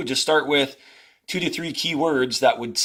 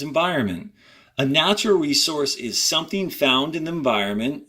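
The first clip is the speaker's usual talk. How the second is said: reading aloud to class. Acted. Teacher reading the passage to students, clear and measured. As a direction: read each sentence out for students.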